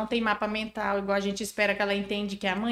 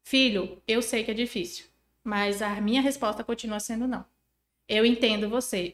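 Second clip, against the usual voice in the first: gentle, softer reassurance. Shown as a demonstration. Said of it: "demonstra empatia".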